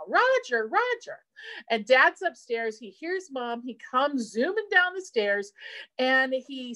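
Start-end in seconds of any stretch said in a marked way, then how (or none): 0.1-1.2 imitating mom's panicked call, much higher; a mild mock call for help across the garage; calling for husband. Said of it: "she's yelling for my dad now".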